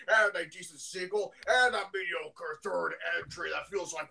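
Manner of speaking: lightly voiced anime recap narrator; Kyle Ebert. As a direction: recap it like a cartoon announcer. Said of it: "That's my Kyle Ebert impression".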